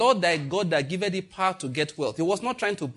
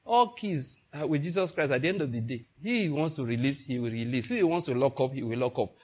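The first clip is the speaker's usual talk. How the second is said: calm polite reply. Retold or imitated. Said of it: "Just say".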